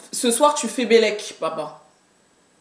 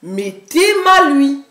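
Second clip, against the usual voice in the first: slow; 3 semitones higher, much slower than usual. Shown as a demonstration. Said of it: "si je te dis".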